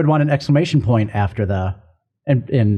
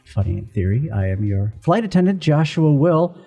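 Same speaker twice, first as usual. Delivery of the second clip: flight attendant voice; 2 semitones lower than usual. Acted. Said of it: "I thought that was your Halloween voice".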